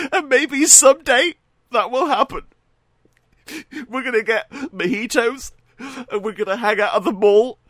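high, put-on voice, a dreamy fake pal; mock Trump voice. Trump pining to befriend Kim, hammed-up high voice. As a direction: camp it up high like a lovesick fan. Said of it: "He messaged him saying".

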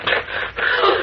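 high startled exclamation; astonished cry. Acted. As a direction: cry out in amazement. Shocked he knocked him out.

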